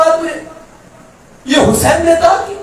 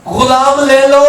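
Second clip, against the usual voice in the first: calling out; 5 dB louder, slower than usual. Retold or imitated. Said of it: "اور صدائیں لگا رہا ہے".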